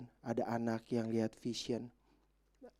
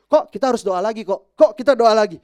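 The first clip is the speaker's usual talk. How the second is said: put-on high, loud eager children's voices; excited kids; 11 semitones higher, 21 dB louder than usual. Children after the deliverance asking to pray again, high and loud.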